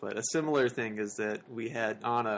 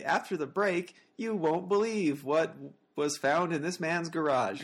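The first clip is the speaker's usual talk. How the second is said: high, drawn-out teaser read; news anchor tease; 5 semitones higher than usual. Retold or imitated. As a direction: build suspense like a TV tease. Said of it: "they do this thing called a tease".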